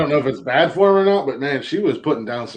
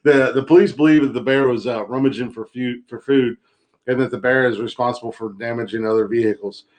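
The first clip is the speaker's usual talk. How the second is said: reading the article like a newscaster; deadpan news anchor read. Acted.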